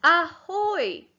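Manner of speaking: high, loud mock pirate call; pirate shout. Teacher voicing the pirate hailing land for pupils. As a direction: hail the ship like a cartoon pirate. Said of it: "the pirate is shouting".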